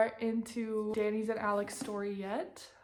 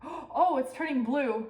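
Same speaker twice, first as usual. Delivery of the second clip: surprised gasp; 4 semitones higher, 5 dB louder, slower than usual. Real, not acted. Sees bruised hand.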